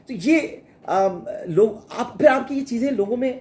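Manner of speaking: normal talking voice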